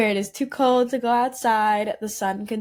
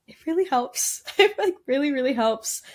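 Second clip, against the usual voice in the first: excited; 4 semitones higher, faster than usual. Real, not acted. Enthusiastic product praise.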